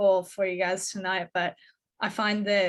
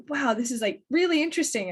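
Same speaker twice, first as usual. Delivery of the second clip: higher, quick, overplayed interest; mock fascination; 5 semitones higher, faster than usual. Sitting through an hour-long cognac lesson at the bar, mock fascinated gush. Retelling reaction to cognac lecture.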